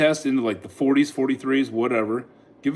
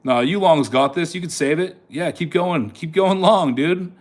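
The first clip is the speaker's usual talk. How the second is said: cheering on; 4 semitones higher than usual. Real, not acted. Cheering the longs on.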